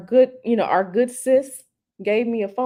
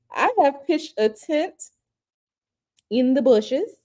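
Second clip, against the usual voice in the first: laughing through words; 2 semitones higher, slower than usual. Real, not acted. Laughs at the bushes comment.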